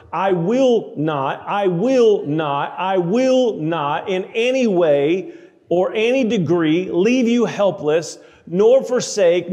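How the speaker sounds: each "will not" slowed and pressed hard; emphatic scripture reading. Acted. Preacher reading God's promise to the congregation, emphatic. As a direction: preach the promise with rising force, slowing on the key phrases.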